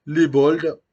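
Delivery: loud, high burst of nostalgia; loud happy exclamation; excited callout. Real, not acted. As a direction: shout the name out with delight. Excited callout of old club.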